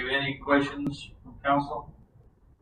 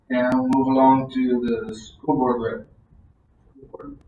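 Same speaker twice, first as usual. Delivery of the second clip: loud slow announcing; 8 dB louder, much slower than usual. Real, not acted. Announcing the next speaker.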